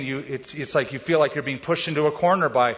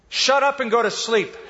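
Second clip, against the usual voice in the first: higher, laughing through a grumpy sleepy order; mock grumpy order; 7 semitones higher than usual. Pastor retells his sleeping wife telling him off, laughing. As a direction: play the half-asleep wife snapping, laughing. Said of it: "she said".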